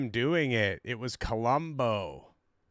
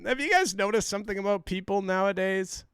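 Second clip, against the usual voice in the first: mimicking comedian; 6 semitones higher, faster than usual. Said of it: "a little bit of Brad Stein".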